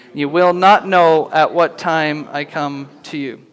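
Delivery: slow, weighty reading of scripture. Acted. Pastor reads the letter to Sardis to the congregation, solemn and slow. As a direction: read it out as the voice of Jesus, slowly.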